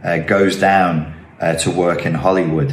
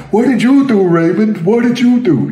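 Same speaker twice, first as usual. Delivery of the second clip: very high, loud, hammed-up Boston accent; bad Boston accent; 12 semitones higher, 4 dB louder than usual. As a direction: cry out in a badly faked Boston accent. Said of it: "think of this guy going".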